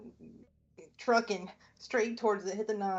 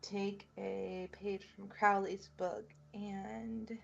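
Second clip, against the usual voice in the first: whisper; 5 dB quieter, much slower than usual. Real, not acted. Whispered aside in play.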